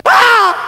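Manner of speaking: sudden high yelp of pain; mock kid holler. Acting out a kid's holler.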